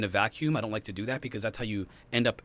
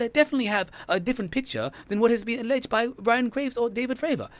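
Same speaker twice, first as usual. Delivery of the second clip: McWest; 9 semitones higher, 3 dB louder than usual. Retold or imitated. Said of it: "McWest does this".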